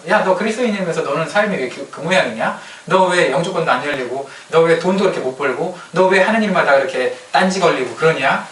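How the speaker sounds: lightly acted taunting challenge; mock protest. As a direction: list the jibes as an imitated scolder. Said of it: "세상 사람들이 항의를 대신해 주죠". (따져 묻는 세상 사람 흉내)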